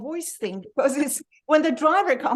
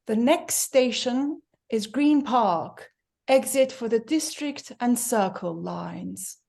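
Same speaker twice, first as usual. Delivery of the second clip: slow, measured posh English announcer voice; imitating a posh London Underground recorded announcement; posh woman's announcement; slower than usual. Teacher imitates the Tube's posh recorded voice, slow and measured. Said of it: "So this is the posh woman who comes on".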